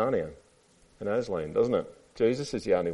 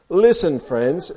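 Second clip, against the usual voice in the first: raised storybook elephant voice; self-important elephant; 8 semitones higher, 9 dB louder, much slower than usual. A narrator's reading. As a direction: address the animals like a chairman. Reads Elephant's speech to children.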